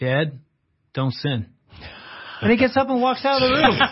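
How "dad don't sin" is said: mock nonchalant, casual delivery. Retelling how his nine-year-old son answered, imitating a nonchalant tone.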